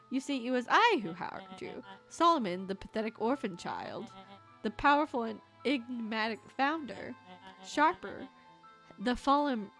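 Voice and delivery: booming, echoing villain voice; villain monologue. Acted. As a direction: loom over them as the gloating mastermind.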